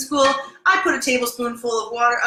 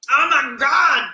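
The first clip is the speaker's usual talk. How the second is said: excited exclamation; 5 semitones higher, 6 dB louder, much slower than usual. Real, not acted. Tasting the pasta, overwhelmed.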